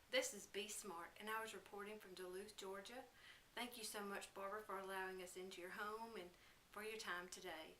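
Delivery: upbeat field reporter sign-off; parody news reporter sign-off. Acted. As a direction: wrap it up like local news. Reporter signs off.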